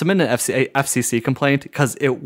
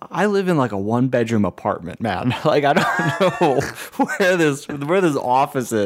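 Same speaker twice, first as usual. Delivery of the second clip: laughing through the words, exasperated; laughing disbelief; 2 semitones higher than usual. Retold or imitated. Telling the rep about the one-bedroom, laughing in disbelief.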